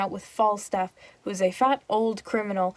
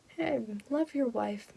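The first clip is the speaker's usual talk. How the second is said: hushed whisper, slow "Hey, love your wife"; whispered plea; 4 semitones higher, 7 dB quieter than usual. Shown as a demonstration. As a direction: whisper the advice like a nudge. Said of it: "So you're like".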